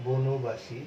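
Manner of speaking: বনবাসী with the ন said as নো; pronouncing the o sound. Shown as a demonstration. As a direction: say বনবাসী as বোনোবাসী, ন with an o. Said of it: "যখন তুমি বনবাসী বলবে". (বনবাসী, ন-কে নো বলে)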